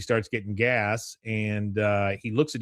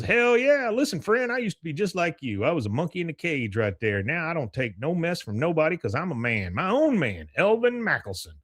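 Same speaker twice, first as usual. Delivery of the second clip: swaggering character speech, mostly pitched up; Elvin; 6 semitones higher than usual. Retold or imitated. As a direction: proclaim it as a proud free man. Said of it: "He goes".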